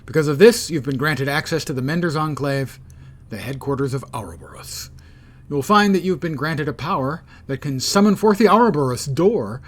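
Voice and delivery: game story narration; quest text read-aloud. Acted. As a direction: read the mission briefing out to viewers. Reads mission text aloud.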